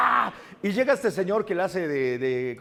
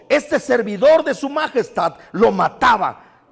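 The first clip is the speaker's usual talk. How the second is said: loud, proud, fervent boast; David tells Saul he killed lions, loud and proud; bold declaration; 4 semitones higher, 10 dB louder than usual. Retold or imitated. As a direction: proclaim it to the king with fire. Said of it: "me fascina cómo lo dice".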